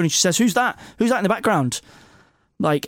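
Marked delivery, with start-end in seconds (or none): 0.4-1.8 mild mock snap. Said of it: "Melissa snaps on the phone".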